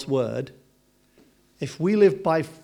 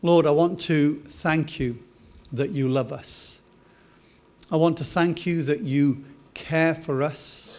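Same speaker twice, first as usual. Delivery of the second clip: prayer. Acted. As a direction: pray it gently to God. Pastor leads closing prayer.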